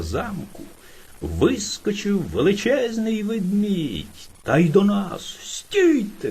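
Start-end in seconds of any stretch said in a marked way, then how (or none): 5.4-6.3 high, sharp shout of a big bear; shouting stop. Retold or imitated. Hare imitating the strange bear shouting stop. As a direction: stop them dead with one yell. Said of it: "кричить".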